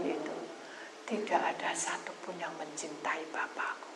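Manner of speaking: soft, hushed grief in a whisper; sorrowful whisper. Acted. Jesus tells his disciples of his sorrow, whispering. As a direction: breathe it out quietly as a grieving teacher.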